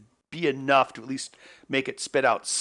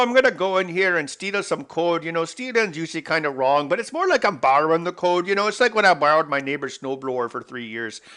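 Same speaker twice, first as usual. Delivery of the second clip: hammed-up Canadian accent, higher and louder; mock Canadian accent; 4 semitones higher, 5 dB louder than usual. Answering people who think he's Canadian, hammed-up Canadian accent. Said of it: "I'll give you Canadian".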